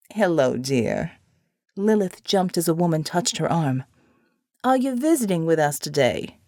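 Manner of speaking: put-on a sweet, frail elderly nun; kindly old woman. Elderly nun greets Lilith.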